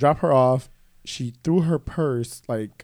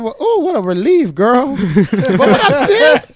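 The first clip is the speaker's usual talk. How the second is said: loud, high, gleeful outburst; exuberant mock relief; 11 semitones higher, 10 dB louder than usual. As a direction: celebrate it big, pitched way up. Acting out relief at aunt's acceptance.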